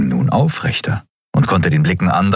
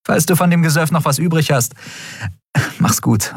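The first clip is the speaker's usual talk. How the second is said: lightly raised voice for the captain Endriel; a wry young captain, higher than the narration; Endriel voiced; 11 semitones higher than usual. Endriel's dialogue voice.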